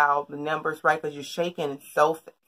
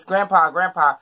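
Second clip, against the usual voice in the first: louder urgent calling of his name; retold hollering, a bit louder; hollering grandpa; 6 dB louder than usual. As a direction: holler to get his attention. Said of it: "I keep hollering in his face".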